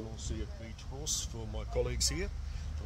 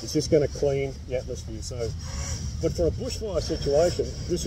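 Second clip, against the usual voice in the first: muffled behind respirator; speaking inside half-face mask; through a face mask; 3 dB louder than usual. Real, not acted. Seen 4: Clear half-face respirator covers his nose and mouth in all frames.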